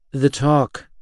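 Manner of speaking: grim, flat confirmation of "talk". Acted. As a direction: say it heavily, no question. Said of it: "I confirmed grimly".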